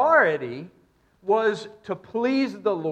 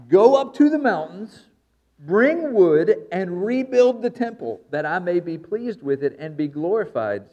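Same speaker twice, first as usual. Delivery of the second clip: a firm command in a father's tone; stern father's command; 6 dB louder than usual. Acted. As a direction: order it like a dad who means it. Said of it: "I hear in verse eight the tone of a dad".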